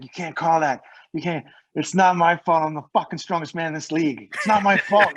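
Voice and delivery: indignant mock yell, hitting key words; mock yelling. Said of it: "Dano's yelling".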